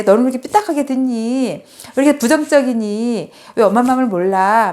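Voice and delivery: mildly acted motherly complaint; resentful reproach. Mother blaming daughter for taking praise crookedly, retold reproach. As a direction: imitate a mother's wounded scolding. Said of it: "이렇게 원망을 했어요".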